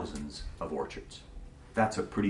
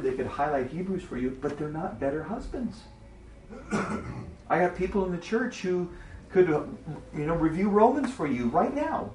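pastor friend; 9 semitones higher than usual. Retold or imitated. Voicing pastor friend's complaint.

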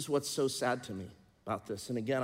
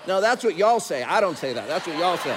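mock protest; 8 semitones higher, 13 dB louder than usual. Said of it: "I go".

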